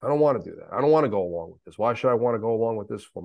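fast, heated, pushing back hard; angry outburst. Retold or imitated. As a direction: spit it out fast like you refuse to give in. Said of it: "I'm angry".

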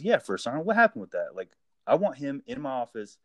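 imitating a superior's mild annoyance; a little irritated. Sergeant major questioning the first sergeant, a little irritated. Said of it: "gets a little irritated".

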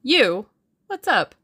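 high, loud burst of surprise; astonished exclamation. A narrator's reading. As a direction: exclaim as if caught off guard. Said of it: "uttered an exclamation of astonishment".

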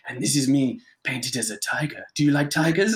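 lightly imitated suave Spanish accent; mock a smooth Spanish charmer showing off. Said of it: "he would talk like this".

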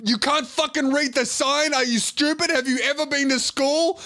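high, exasperated yelling; the driver scolding the girls; angry driver. Retold or imitated. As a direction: berate them. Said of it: "And he goes".

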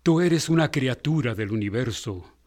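calm, earnest reading of Desiderata; poem recitation. Acted. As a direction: recite it like wise counsel.

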